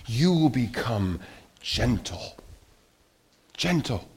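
soft, slowed and deliberate; gentle tone. Shown as a demonstration. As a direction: let the voice sink into gentleness. Demonstrates the gentle tone described.

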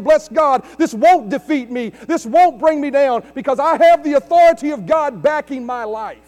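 firm, bold declaration of faith; authoritative declaration. Retold or imitated. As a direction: speak it with full authority. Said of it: "standing up in the authority".

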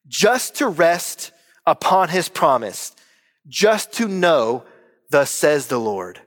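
very slow, measured verse reading; hymn recitation. Acted. Pastor reciting a hymn to the church, slow and reverent. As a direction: recite it line by line, drawn out with pauses.

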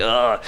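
low, drawn-out yuck groan; disgusted ugh. Acted. Picturing the chicken inside an egg, disgusted. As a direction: groan as if grossed out.

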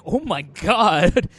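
drawn-out, stretched 'oh my God'; awed reaction. Retold or imitated. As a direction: imitate her stunned reaction, very slowly. Acted reaction to the switchblade.

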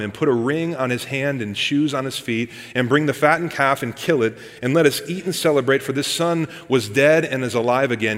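steady, measured Bible reading; scripture reading. Acted. Preacher reading scripture aloud to the youth group, measured. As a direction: read the passage to the congregation.

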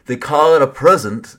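teasing sing-song parody; mock the proverb as you say it. Shown as a demonstration. Preacher parodying a saying he rolls his eyes at, mocking. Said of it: "I can't even say it without mocking it".

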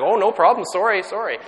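high, loud, rushed sorry; gushing apology. Retold or imitated. To the woman in the corridor, a high, loud gushing sorry. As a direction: pile on the apologies, going up high. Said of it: "And I was like".

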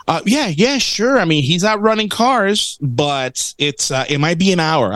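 a hint of a caught-out desk clerk; mock flustered clerk. Clerk's flustered answer, voiced in story.

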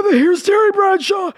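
high, slow strained croak; lost voice. Retold or imitated. Sportscaster with a lost voice, straining slowly. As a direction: push the words through a shredded voice. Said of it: "I have this".

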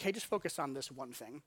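lightly voiced tender Jesus; gentle Jesus. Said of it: "And Jesus is like".

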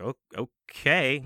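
slow, drawn-out okay; hesitant agreement. Retold or imitated. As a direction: agree reluctantly, stretching the word out. Reluctant reply to coach's order.

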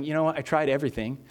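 mildly fed-up, understated retort; a touch of mock exasperation; eye-rolling exasperation. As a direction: answer a nagging buddy with weary annoyance. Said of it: "rolling your eyes going".

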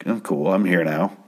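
imitating a checked-out man's shrug; casual, indifferent retelling; nonchalant. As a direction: toss it off as if nothing matters. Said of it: "amazingly nonchalant about everything".

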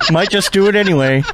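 words through laughter; laughing. Real, not acted. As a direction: laugh while saying it.

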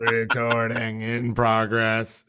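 slow automated-message voice; flat machine announcement, drawn out; robot voice. Shown as a demonstration. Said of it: "Is that better? Did I do it right".

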